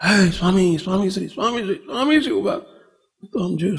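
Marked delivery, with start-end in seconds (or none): 0.0-2.3 student calling after the swami from a distance. Retold or imitated. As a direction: call out his name as you run behind him, rising on the last call. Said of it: "દોડતો દોડતો બૂમો પાડતો પાડતો આવે". (દૂરથી બૂમ પાડીને બોલાવવું)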